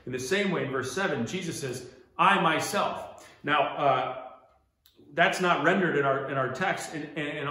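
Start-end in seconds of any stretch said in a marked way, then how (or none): 2.2-3.3 slow, loud, punched "I myself"; emphatic I. Shown as a demonstration. Preacher quoting Jesus in verse seven, emphatic "I". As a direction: draw out and hit "I" in "I myself". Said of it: "it has an emphatic".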